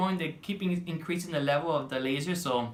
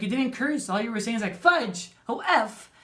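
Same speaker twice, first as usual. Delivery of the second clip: high teasing technician voice; 7 semitones higher, 5 dB louder than usual. Retold or imitated. Technician teasing about curses.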